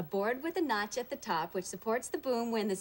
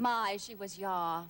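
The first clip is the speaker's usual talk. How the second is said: put-on old movie heroine; slower than usual. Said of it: "seen Philadelphia Story?".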